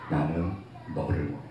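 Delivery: very low, soft declaration; God's tender voice. Acted. God telling the believer what He wants, tender. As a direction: drop low and hushed, with longing. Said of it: "하나님이 정말 원하시는 건 딱 이건 거예요".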